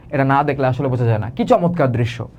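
normal talking voice

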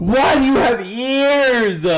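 slow silly put-on repeat; mock drawn-out voice. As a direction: drag every word out in a goofy voice.

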